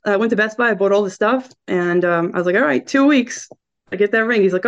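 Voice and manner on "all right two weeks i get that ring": a light teasing high voice; playful demand. Retold or imitated. To her boyfriend, half-joking, a bit higher. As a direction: tease him about the ring.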